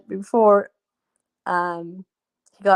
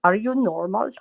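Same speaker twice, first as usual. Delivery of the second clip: lightly voiced mother's question, rising at the end; imitated motherly "normal?" with a lift; 2 semitones higher than usual. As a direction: mimic the listener's mother asking. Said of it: "saying it in your mother's voice".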